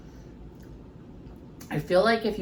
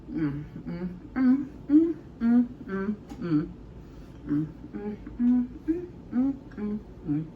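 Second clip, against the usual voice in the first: savoring hum; 3 semitones higher than usual. Real, not acted. Savoring food, can't talk.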